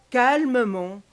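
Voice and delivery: usual speaking voice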